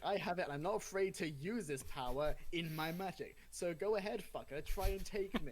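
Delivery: high, loud, fierce challenge; defiant battle cry. Retold or imitated. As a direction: dare the beast to attack. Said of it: "it was basically that".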